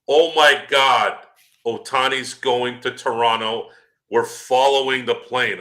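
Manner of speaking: mock excited fan. Mocking Toronto fans chasing rumours, hammed-up excitement. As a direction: lampoon breathless fan hype. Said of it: "I just happened to hear somebody saying".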